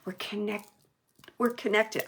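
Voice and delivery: hiccuping mid-sentence; hiccups. Real, not acted. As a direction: break in with small hiccups. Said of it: "I don't know why I got the hiccups".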